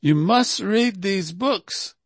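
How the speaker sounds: slow, stern, demanding order; forced obligation. Shown as a demonstration. Imitating how Prabhupada would not tell devotees to read, a slow stern demand. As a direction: lay it down as a command. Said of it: "il va pas dire ... Pas ça qu'il dit".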